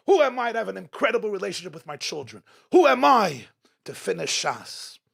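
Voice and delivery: each question hit hard at the start, then falling; acted protest, punching every "who am I"; incredulous self-doubt. Preacher voicing people afraid to shine, incredulous self-doubt.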